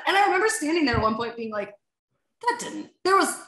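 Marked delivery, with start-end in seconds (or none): 2.4-2.9 stunned disbelief. Retold or imitated. Disbelief at the missed kick.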